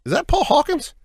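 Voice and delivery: high, startled disbelief; stunned question. Retold or imitated. To his mom, stunned to spot Paul Hawkins. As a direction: jolt up in pitch, amazed. Spotting his father's friend.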